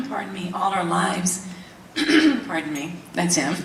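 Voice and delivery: clearing a husky throat; frog in throat. Real, not acted. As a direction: talk past a tickle in the throat. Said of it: "Little frog in my throat".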